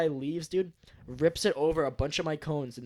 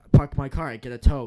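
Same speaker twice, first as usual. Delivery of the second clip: put-on slurring drunk; 10 dB louder than usual. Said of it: "he couldn't even speak".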